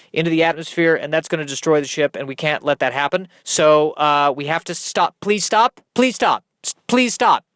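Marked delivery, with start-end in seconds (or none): 5.2-7.4 desperate pleading. Acted. Pleading with the hissing alien.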